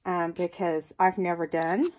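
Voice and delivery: talking around a pin in her mouth; words blurred by a pin held in lips. Real, not acted. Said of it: "shit, I've got a pin in my mouth".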